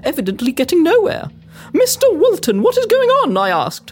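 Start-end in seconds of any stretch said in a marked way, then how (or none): 1.7-3.4 higher-pitched, pressing question; demanding. Acted. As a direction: demand to know what's happening. Demands explanation of commotion.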